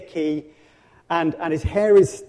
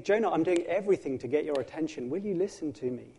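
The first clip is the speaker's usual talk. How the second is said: patient God; 6 dB quieter than usual. Acted. God pleading with Jonah.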